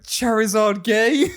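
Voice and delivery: high, loud, drawn-out mock Pokemon; imitating co-host's Pokemon voice. Podcaster imitating co-host's Charizard coming out, high mock Pokemon voice. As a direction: stretch it out high, rising into a question. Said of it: "you just went".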